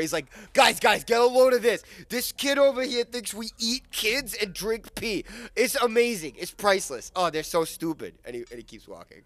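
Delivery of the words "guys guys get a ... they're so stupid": high, loud goblin calling to his pals; loud mocking amusement. Goblin walks away telling the guys, loud and mocking. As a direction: crow it out to the whole crowd. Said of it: "And he starts laughing and he walks away".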